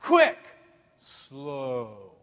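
preacher demonstrates a rhythm chant; quick high, slow low. Shown as a demonstration. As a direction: snap up on "quick", sink down on "slow". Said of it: "It's like".

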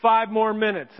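put-on firm, measured warning to the kids; retold stern parent, each phrase set apart; stern dad. Dad warning his girls at the pool, very stern. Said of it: "in a very stern voice".

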